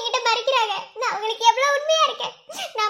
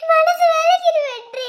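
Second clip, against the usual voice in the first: slow, louder sob-filled plea; crying; 4 semitones higher, 4 dB louder than usual. Acted. Wife sobbing to Vetri about the deceit, crying. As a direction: break down as the pain spills out. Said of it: "எதுக்குடி அழுகுற?".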